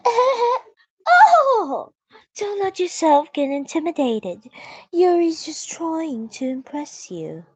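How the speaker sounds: high, loud laughing reassurance; laughing girl voice. Acted.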